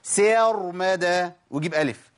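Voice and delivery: slow سير مدى with an added vowel after the س; mocking wrong form. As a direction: mimic سير مدى with a stretched ي. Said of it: "يقول ايه؟".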